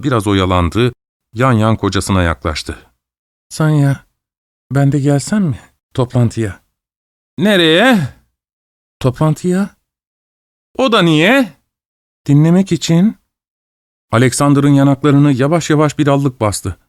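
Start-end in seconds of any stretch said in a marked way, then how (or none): 3.5-8.0 timid pleading wife. Acted. Timid wife asks husband. 9.0-9.8 wife timidly insists on the meeting. Acted. 10.8-13.2 timid pleading wife. Acted. Timid wife asks husband.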